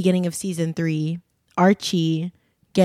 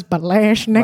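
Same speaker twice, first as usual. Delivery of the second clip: put-on a weird, failed Jamaican accent; bad Jamaican accent; 3 semitones higher, 4 dB louder than usual. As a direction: imitate a clumsy Jamaican accent try. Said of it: "she goes".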